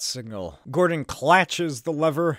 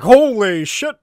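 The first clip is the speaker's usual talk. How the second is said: loud, higher yell of alarm; panicked shout; 6 semitones higher, 10 dB louder than usual. Acted. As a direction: shout it as the cops flee. Cops react in panic.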